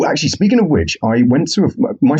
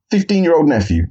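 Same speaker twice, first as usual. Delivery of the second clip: deflated; 8 semitones higher than usual. Real, not acted. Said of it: "Same collar size, same body shape".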